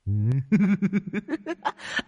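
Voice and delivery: high, eerie shrill cackle from far off; shrieking cackle of a possessed spirit; shrieking ghost laugh. Acted. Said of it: "cười ré lên".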